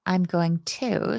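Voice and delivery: normal talking voice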